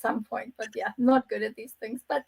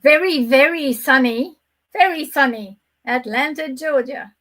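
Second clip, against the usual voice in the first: put-on slow, drawn-out Southern accent; attempted Southern accent; 4 dB louder than usual. Guest signing off from sunny Atlanta, attempted Southern accent. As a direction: have a playful go at a Georgia accent. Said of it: "not that I can do the accent".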